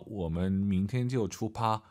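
put-on slow Korean-accented Mandarin, 出发 with a P; Korean-accented learner Mandarin; Korean beginner imitation. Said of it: "제가 초급자분을 한번, 어, 모방해 보겠습니다".

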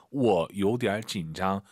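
"워, 요디알 진장" starting on a low "워"; teacher's model with "워" held down; half third tone. Shown as a demonstration. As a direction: keep "워" low, without lifting it, in "워, 요디알 진장". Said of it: "원은 여기서 반삼성입니다".

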